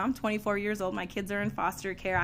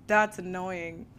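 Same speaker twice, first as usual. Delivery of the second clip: very slow, laughing through it; grudging laugh; 4 dB louder, much slower than usual. Retold or imitated. Caught out by her own words, laughing grudgingly. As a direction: drag it out with a laugh.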